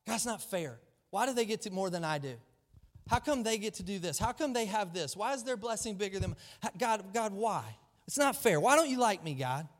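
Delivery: a hint of a sulky Cain; lightly voiced pleading complaint; Cain complaining to God. Cain whining to God, mildly voiced. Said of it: "He was angry at God".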